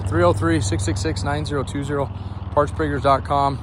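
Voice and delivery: winded, talking between breaths; breathless after the work. Real, not acted. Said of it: "now I'm winded".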